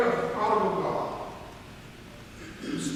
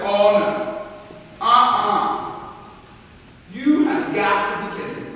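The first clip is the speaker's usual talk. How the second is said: mild mock outrage, a bit louder; retold anger; 3 semitones lower, 3 dB louder than usual. Older brother refusing the party, in mild mock outrage. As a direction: huff it out like a put-out older brother. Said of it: "He gets pissed off".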